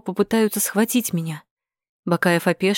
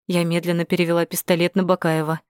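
plain reading voice

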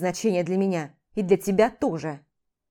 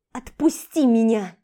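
loud, slow plea; pleading cry; 5 dB louder, slower than usual. Acted. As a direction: push him away. Struggling in his grip. (громкая мольба)

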